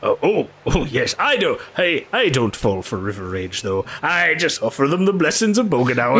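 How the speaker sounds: lightly voiced river boatman; earnest, lively protest from a simple bargeman; superstitious boatman. Plays river boatman in game.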